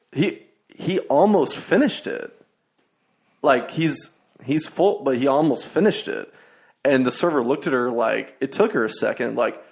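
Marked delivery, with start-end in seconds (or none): 0.1-6.3 humorless mom. Retold or imitated. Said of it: "the mom had no sense of humor".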